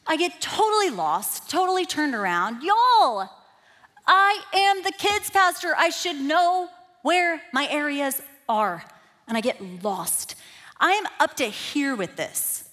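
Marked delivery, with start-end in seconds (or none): 2.6-8.8 louder, higher cry of frustration; exasperated outburst. Retold or imitated. Lost kids pastor venting in the hallways, loud and fed up. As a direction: vent it, fed up.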